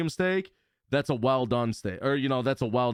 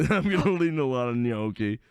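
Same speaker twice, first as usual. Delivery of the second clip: laughing echo. Real, not acted.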